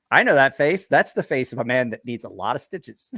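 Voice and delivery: half-joking loud alarm; mock alarmed outburst. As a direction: call it out like you've seen it before. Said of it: "And I was like".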